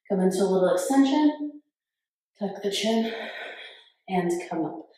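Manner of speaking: slightly breathy from a cold; congested, airy voice. Real, not acted. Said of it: "if I sound a little breathy".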